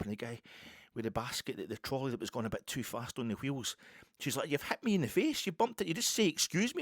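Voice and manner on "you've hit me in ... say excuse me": much higher-pitched imitation of an aggrieved woman; retold indignant complaint. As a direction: act out the woman demanding an apology.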